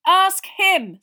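high, loud insistence; urgent. Acted. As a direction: jab the words at them. Pointing a shaking finger.

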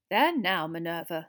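gentle consoling, dropping at the end; kindly. A narrator's reading. Minister consoles tearful professor, kindly. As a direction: soothe her kindly. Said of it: "said Fudge kindly".

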